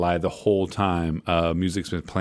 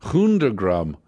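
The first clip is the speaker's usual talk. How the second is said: Hundergramm Records with German accent. Real, not acted. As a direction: says Hundergramm like a German word. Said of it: "I always say it in a German accent".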